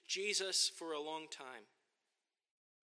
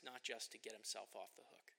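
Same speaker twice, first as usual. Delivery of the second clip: whispered aside; 4 semitones lower, 8 dB quieter than usual. Real, not acted. Whispered aside about Paul's motive.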